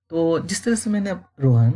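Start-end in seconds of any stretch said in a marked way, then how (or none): 1.4-1.7 a touch of tender fondness in Rohan; said lovingly. Shown as a demonstration. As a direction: say Rohan with a lot of affection. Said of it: "मुझे बहुत प्यार से बोल रहे हैं".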